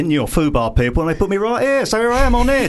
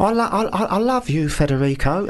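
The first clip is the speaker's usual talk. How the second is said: mock Italian romance; 5 semitones higher than usual. Shown as a demonstration. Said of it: "Say this, say that".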